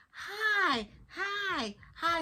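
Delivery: high, bright repeated greetings; mock cheery hi. SpongeBob greeting the town, high cheery hi. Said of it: "He's like".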